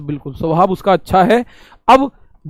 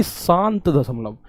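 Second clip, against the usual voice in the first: slow gloss; 4 semitones lower, 6 dB quieter, slower than usual. Shown as a demonstration. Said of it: "terminating decimal".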